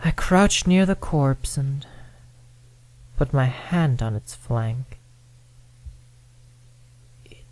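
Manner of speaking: plain reading voice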